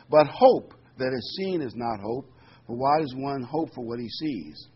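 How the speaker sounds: solemn scripture read. Acted. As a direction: read the verses out to the congregation with weight. Reading scripture aloud.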